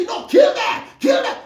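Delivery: very high yelled chant; mock scream. Mocking war supporters, high shrill scream. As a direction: scream it like a mob urging violence. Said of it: "We must just scream and say".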